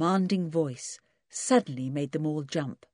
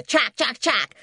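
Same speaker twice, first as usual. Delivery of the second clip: high, loud bird chatter like a laugh; laughing jackdaw call; 7 semitones higher, 5 dB louder than usual. Acted. Jackdaw laughing at the twins, loud chack. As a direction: cackle it like a jackdaw. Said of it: "that sounded very like a laugh".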